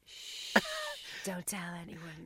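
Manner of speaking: hushed conspiratorial whisper. Retold or imitated. Friend whispering to friends about the recycled outfit, hushed whisper. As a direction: whisper it like a shared secret. Secret shared about reused look.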